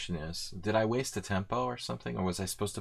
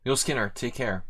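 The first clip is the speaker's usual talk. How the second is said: a touch higher, a light robotic assistant read; like Alexa; 4 semitones higher, 4 dB louder than usual. Acted. Streamer thanks a viewer in a mild Alexa voice. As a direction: sign off like a voice assistant. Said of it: "I talk like Alexa".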